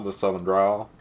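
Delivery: drawled Southern growl. Shown as a demonstration. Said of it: "Southern accent".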